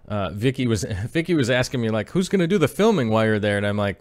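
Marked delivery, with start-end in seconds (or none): 2.1-3.6 wife's voice. Retold or imitated. Voicing his wife's question.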